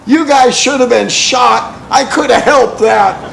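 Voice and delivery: loud, high angry snap; pissed-off medic. Retold or imitated. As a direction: tell them off like a fed-up medic. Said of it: "the medic finally gets pissed off and says".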